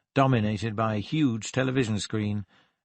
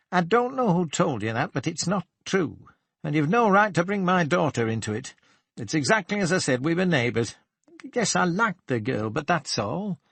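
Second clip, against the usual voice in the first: higher, heated protest, quicker in the middle; flustered man defending himself, raised pitch; indignant denial; 6 semitones higher than usual. Acted. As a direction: bristle and deny it, voice rising. Cooper turned red, denies.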